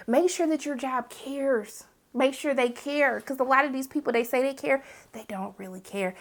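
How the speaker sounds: softly, like sharing a heartfelt warning; sincere advice. Real, not acted. Earnest advice to viewers.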